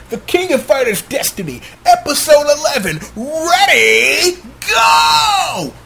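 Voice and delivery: hyped fight announcer, rising to a shouted go; Gundam announcer voice. Shown as a demonstration. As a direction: call the match start like a tournament announcer. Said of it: "I was trying to give y'all my best Gundam announcer voice".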